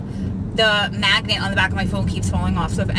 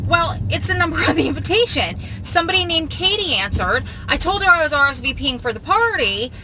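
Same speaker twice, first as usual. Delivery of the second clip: lightly imitated bubbly aunt, pitched up; high-pitched aunt; 5 semitones higher than usual. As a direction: retell it as the high-voiced little aunt. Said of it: "this high-pitched, adorable voice".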